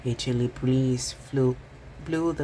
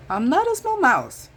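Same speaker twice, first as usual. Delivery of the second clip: high, loud firm insistence; insisting; 8 dB louder than usual. A narrator's reading. Mouse insisting to Squirrel, high and loud. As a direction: stamp your foot on it. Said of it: "insisted Mouse".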